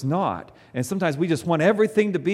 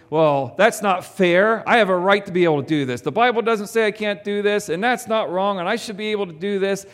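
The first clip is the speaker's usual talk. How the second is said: indignant, defiant, mostly louder; entitled protest; 5 semitones higher, 4 dB louder than usual. Retold or imitated. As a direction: rant like a self-righteous believer insisting on rights. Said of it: "Because we might think".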